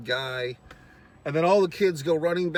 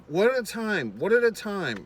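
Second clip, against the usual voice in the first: calming mom; 7 semitones higher, 4 dB louder than usual. Retold or imitated. Camp mom calming screaming kids.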